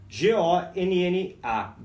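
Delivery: letters spoken one by one, slowly; slow letter-by-letter spelling; spelled out. Shown as a demonstration. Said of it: "spelling the word".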